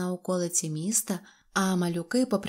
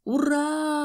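high, drawn-out hurrah; cheering; 8 semitones higher, 3 dB louder than usual. A narrator's reading. Crowd applauding the poet's verse, cheering. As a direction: burst into a held cheer. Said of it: "закричали з усіх боків".

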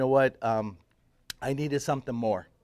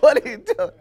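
puzzled friend; 13 semitones higher, 8 dB louder than usual. Retold or imitated. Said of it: "looking at me like".

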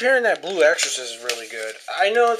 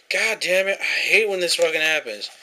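annoyed; 4 semitones higher, 3 dB louder than usual. Real, not acted. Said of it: "now I'm fucking pissed off".

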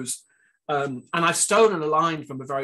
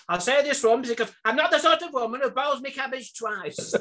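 Hilda Ogden; 11 semitones higher than usual. Retold or imitated. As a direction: deliver it like a blunt Coronation Street battleaxe. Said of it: "Hilda Ogden is saying".

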